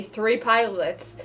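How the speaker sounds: usual speaking voice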